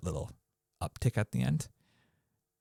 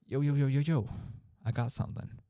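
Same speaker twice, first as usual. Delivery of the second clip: eager interrupter; 6 semitones higher than usual. Shown as a demonstration. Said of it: "The bookmark, you raise the one finger".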